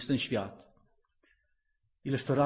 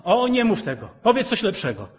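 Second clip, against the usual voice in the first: mock protesting believer; 10 semitones higher, 10 dB louder than usual. Mocking reluctant believer.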